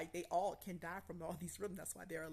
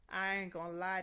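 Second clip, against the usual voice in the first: "I ain't gonna lie" said louder and stronger; emphatic repeat; 7 dB louder than usual. Real, not acted. Admitting to viewers the test was hard, emphatic and louder. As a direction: hammer it home louder.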